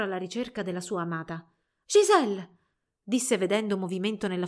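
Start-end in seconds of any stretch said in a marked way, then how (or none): 1.9-2.6 higher, louder call of her name; raised-voice hail. A narrator's reading. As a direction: call to someone through the fog. Albert calls his beloved.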